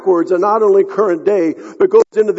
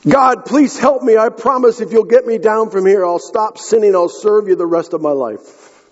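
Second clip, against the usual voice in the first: high-pitched, acted plea for rescue; mildly hammed-up bargaining prayer; desperate pleading; 4 semitones higher than usual. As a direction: beg God for your life, pitched up. Jack begs God while hanging.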